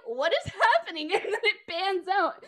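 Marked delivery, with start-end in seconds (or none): 0.0-1.1 loud, high, hammed-up confusion; mock bewildered. Friend voicing a confused onlooker in the imagined scene. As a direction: play it like a melodrama. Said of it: "you're like".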